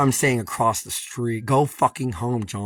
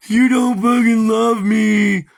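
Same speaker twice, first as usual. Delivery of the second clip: high, slow, whining mockery of a clingy partner; mocking whiny quote; 11 semitones higher, 10 dB louder, slower than usual. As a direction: whine it out like a needy lover. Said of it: "It's all like".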